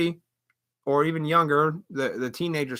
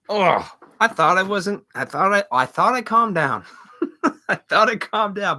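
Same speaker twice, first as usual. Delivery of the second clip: laughing at herself; 3 semitones higher, 5 dB louder than usual. Real, not acted. Laughs at her own anger.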